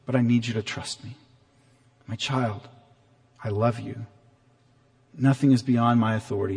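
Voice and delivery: put-on gentle and reassuring, like a father calming his child; tender loving God. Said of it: "No, that's not God's tone. I think God is saying".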